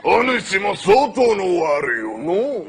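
ゆっくり悪代官の台詞; 悪代官らしくゆっくりと; 悪代官. Acted. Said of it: "越後屋". (越後屋に語りかける悪代官、ゆっくり)

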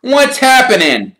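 put-on high, puzzled boy's voice; lightly voiced puzzled boy; Ron asking. A narrator's reading. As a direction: ask it confused and wary. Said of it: "Ron asked".

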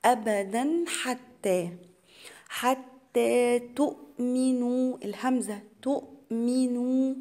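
drawn-out tajweed chant, each syllable held; slow Quran recitation. Shown as a demonstration. Teacher recites the verse to students as a slow chant. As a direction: recite it slowly for the students, holding the long vowels. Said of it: "بظهر التنوين".

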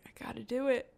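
soft whispered self-talk; whispered resolve. Real, not acted. Player whispers to steel herself, soft whisper. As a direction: steel yourself under your breath.

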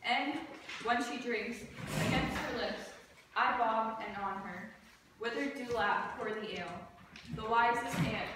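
measured, deliberate verse delivery; stage recitation. Acted. Student performing Puck's speech for class, measured recitation. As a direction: recite line by line, with short pauses.

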